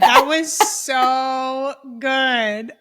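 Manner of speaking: drawn out slow through laughter; laughing hard, stretching the words; delighted friend laughing at the bit; laughing praise. Real, not acted.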